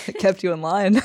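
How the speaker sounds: loud, laughing quip; laughing tease. Real, not acted. Teasing her friend about being humbled, with a loud laugh.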